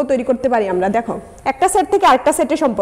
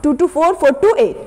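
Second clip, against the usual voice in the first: slow counting; much slower than usual. Shown as a demonstration. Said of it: "এইট হয় কিনা দেখো".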